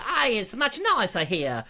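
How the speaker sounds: lightly put-on Mexican-ish accent; uncertain mock accent. Traveller praising New Mexico, lightly mocked foreign accent. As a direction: wobble into a vague foreign accent. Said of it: "I don't know what accent that is".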